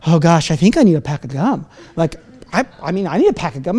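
low, soft murmured self-persuasion; sheepish self-talk. Acted. Man tempted at the checkout reasons with himself, sheepish murmur. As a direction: talk yourself into it under your breath.

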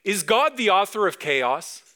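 acted backyard call to kids. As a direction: call the children over with an eager question. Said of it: "In the backyard".

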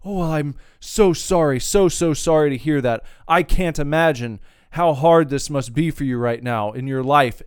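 exasperated mimicry of a fake-sorry agent; fake sympathy. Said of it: "another fake sentiment".

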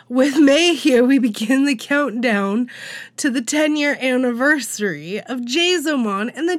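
restart after choking. Real, not acted. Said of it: "Sorry, I'm choking on myself".

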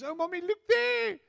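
put-on excited child. Child sees a herd of pigs.

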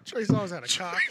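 laughing through a slip of the tongue; laughing misread. Real, not acted. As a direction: blurt the misread while cracking up. Misreads headline while laughing.

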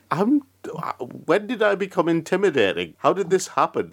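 high-pitched, incredulous questioning; baffled protest. Real, not acted. Baffled at being called intimidating.

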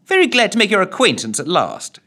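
beaming plummy greeting. A narrator's reading. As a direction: greet him with a big smile. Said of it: "she beamed".

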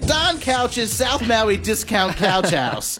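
slow, drawn-out radio ad voice; mock ad read. Host reading a silly sponsor ad, slow cheesy ad voice. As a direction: sell the couch shop like a cheesy radio spot.

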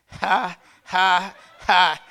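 spaced-out mock laugh, breathed out; deliberate ha-ha-ha. Shown as a demonstration. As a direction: puff out three separate dismissive ha's. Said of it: "just say, 'Ha, ha, ha.'".

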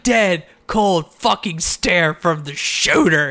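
slow, drawn-out delivery; imitated dramatic announcement. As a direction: stretch the words for mock drama. Repeating Moxley's drawn-out line.

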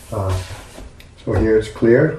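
ordinary talk, nothing marked

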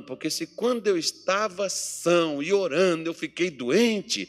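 Ezequias complaining. Retold or imitated. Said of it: "Ezequias dissesse assim".

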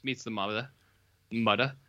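ordinary talk, nothing marked

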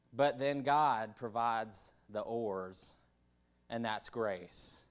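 slow, stretched-out preacher delivery; good preacher voice. Acted. Speaker imitates preachers explaining grace, in slow preacher voice. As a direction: draw it out like a preacher. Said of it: "get my, my good preacher voice".

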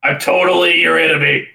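hammed-up movie villain; mock villain voice. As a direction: play the sneering baddie, ending in a shout. Mocking movie villain's line.

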